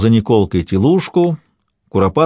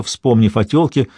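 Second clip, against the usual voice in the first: ordinary delivery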